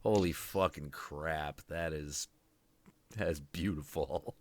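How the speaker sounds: hushed, low awed reaction; quietly reverent, voice sinking low; retold awe. Retold awed reaction to hot tub.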